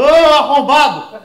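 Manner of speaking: slow angry outburst; yelling at cyclist. Retold or imitated. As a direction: shout the insult at the passing bike, drawn out.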